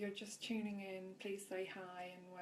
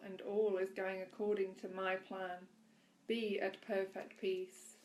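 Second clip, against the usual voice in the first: measured, projected read-aloud voice; devotional reading; 7 dB louder than usual. A narrator's reading. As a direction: read it out clearly, with deliberate weight. Reads aloud a devotional passage.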